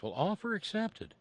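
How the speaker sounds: deadpan reply. Acted. Answering the slogan like the alien.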